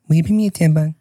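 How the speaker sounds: high, garbled mock plea; hammed-up high voice begging for help; imitated partner calling out. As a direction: whine it high through a bathroom door.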